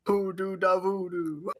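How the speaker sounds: put-on slow, hammy Jamaican accent; drawn-out cartoonish Jamaican voice; mock Jamaican accent. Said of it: "a Jamaican accent or something?".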